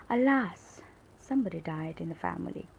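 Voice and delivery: mild demonstrated lament; sad exclamation. Shown as a demonstration. Teacher giving an example of sad feelings, mildly sad exclamation. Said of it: "When we are sad, we said".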